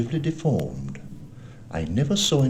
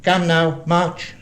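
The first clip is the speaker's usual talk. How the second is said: high, loud, cold command; cruel, cold, ugly; 9 semitones higher, 6 dB louder, slower than usual. A narrator's reading. Blind man interrupts the boy, cruel high command. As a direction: cut in with a cruel order. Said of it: "a voice so cruel and cold and ugly".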